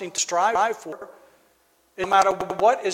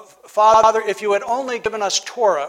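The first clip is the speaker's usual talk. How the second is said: Father called out loud, then the line recited; loud prayer address; 2 semitones higher, 6 dB louder than usual. Acted. Congregation reciting the Seder prayer to God, calling out loud. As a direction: open the prayer with a strong call.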